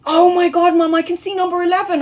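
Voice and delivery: excited daughter. Retold or imitated. Daughter excitedly tells mum what she sees. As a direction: gasp it out like a thrilled child. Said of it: "she's like".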